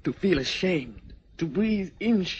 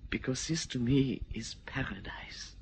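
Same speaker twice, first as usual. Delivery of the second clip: hushed confession; 6 dB quieter than usual. Acted. Tender confession to his hostess.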